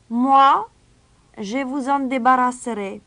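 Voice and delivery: a high, clear, ringing stranger's voice. Acted. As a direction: ring out above the crowd. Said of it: "une voix claire s'éleva". (voix claire et aiguë de l'étranger)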